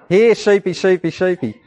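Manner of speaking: a touch of a sing-song sheep call; mild shepherd calling his flock. Pretend. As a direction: coax the sheep in, lightly. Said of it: "That's a nice voice".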